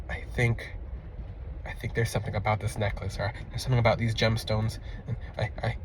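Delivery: soft, hesitant, thinking it over aloud; half to himself, puzzled and low; quiet unsure musing. Retold or imitated. Client puzzling over the necklace, soft and unsure.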